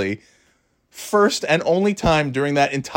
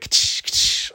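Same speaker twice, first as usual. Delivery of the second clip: whip crack sound; 3 dB quieter than usual. Retold or imitated. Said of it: "the whip".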